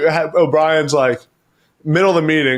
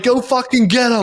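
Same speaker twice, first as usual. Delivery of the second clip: mock coach order; 9 semitones higher than usual. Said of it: "O'Brien was like".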